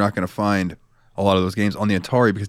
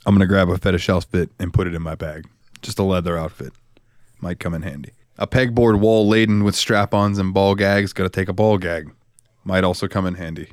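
story narration. A narrator's reading. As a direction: set the scene with dry suspense. Game master narrates scene.

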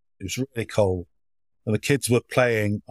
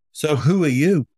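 put-on child's voice; 4 semitones higher than usual. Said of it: "And then this voice came".

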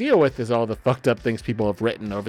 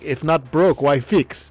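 loud, higher, hammed-up Russian accent; bad Russian accent; 5 semitones higher, 9 dB louder, slower than usual. Shown as a demonstration. Friend clowning to get laughs, bad Russian accent. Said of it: "doing a bad Russian accent".

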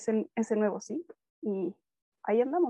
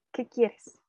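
groggy annoyance. Retold or imitated. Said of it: "esa fue mi expresión".

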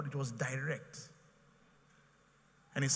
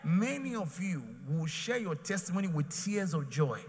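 shouted proclamation; 3 semitones higher than usual. Real, not acted. Preacher proclaiming to congregation.

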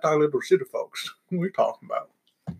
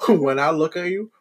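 slow, drawn-out mock flirting; mock pickup line; 3 semitones higher, slower than usual. Friend trading joke pickup lines, mock flirty. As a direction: stretch it out like a corny come-on.

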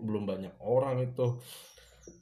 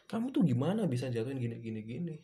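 fast, louder imitated scold that fades; scolding boss; 4 semitones higher, 4 dB louder, faster than usual. Boss scolding the waiter over spilled water, fast scold. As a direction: rattle off the boss's rebuke. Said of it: "Awal aku kerja langsung dimarahin".

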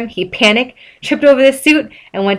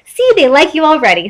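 happy; 8 semitones higher, 3 dB louder than usual. A narrator's reading. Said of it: "SpongeBob said happily".

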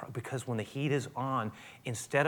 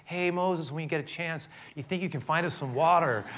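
passive polite request; 3 semitones higher than usual. Retold or imitated. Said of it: "This was not like a passive".

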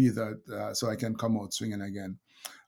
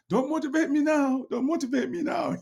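put-on much higher, sharp voice of an annoyed kid; annoyed daughter; 5 dB louder than usual. Dad imitates his older daughter brushing off his pep talk, annoyed. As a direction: snap it like a fed-up teenager waving dad off. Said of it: "She go".

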